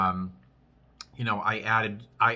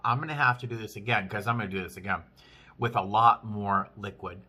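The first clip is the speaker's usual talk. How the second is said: talking through a mouthful of food; words round a bite of food; mouth full; 2 semitones lower than usual. Real, not acted. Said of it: "I was talking with my mouth full".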